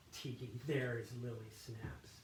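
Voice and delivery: resentful monk sneering to himself; acted-out soliloquy. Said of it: "try to act this out".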